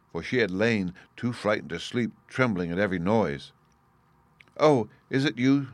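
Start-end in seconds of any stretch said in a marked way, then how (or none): 4.6-5.7 higher-pitched glad greeting; joyful cry. A narrator's reading. Princess greets the returning cat, joyful cry. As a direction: cry it out with mild joy. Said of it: "she cried joyfully".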